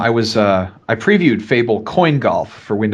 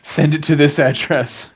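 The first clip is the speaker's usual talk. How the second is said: mock whiny pleading; 3 semitones higher than usual. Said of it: "write them an email and say".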